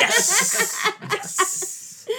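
very high, loud laughing cheer; kid's joyful cheer. Retold or imitated. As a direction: celebrate the win like a thrilled kid. Kid's joy when dad approves.

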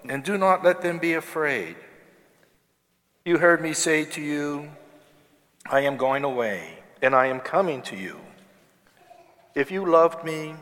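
distant reverberant voice in a big church; cathedral echo. Real, not acted. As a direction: proclaim it into a cavernous hall. Priest proclaims gospel in church.

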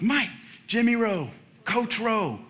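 imitating the old coach's reintroduction; eager coach greeting. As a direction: coach hurries up to his former player, introducing himself. Coach greeting him after years.

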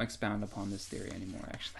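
hushed aside, voice dropped to a whisper; secretive whisper to avoid spoilers. Real, not acted. Stops himself from spoiling.

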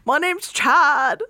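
slow, cocky bro voice; drawn-out cocky introduction; playing a cheesy heartthrob introducing himself; mock Chad. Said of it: "What was it like?".

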